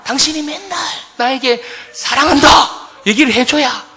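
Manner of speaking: insistent bride. Acted. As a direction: play a wife coaxing her husband emphatically. Wise bride demands daily love words.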